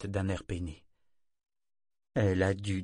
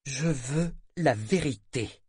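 slow, deliberate, simple demand; ton calme; 4 semitones higher, slower than usual. A narrator's reading. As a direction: state it calmly, word by word. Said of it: "dit-elle d'un ton calme avec simplicité". (calme, lent et posé)

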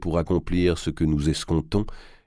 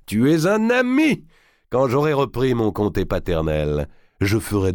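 much higher, louder joyful cry; grinning cry; 5 semitones higher, 4 dB louder than usual. A narrator's reading. D'Artois hails the banker as a friend, loud and beaming. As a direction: embrace him with your voice. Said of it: "avec un grand sourire".

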